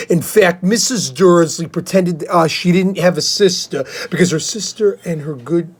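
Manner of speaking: steady read-aloud storyteller voice; reading a children's book aloud; story narration. Acted. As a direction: read it like an audiobook chapter. Reads Harry Potter aloud.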